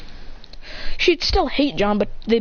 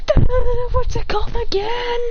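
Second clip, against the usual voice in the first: high, loud stammer, then high question; flustered stammering; 13 semitones higher, 4 dB louder than usual. Acted. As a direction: play frantically searching for the words. Acted frantic search for the phrase.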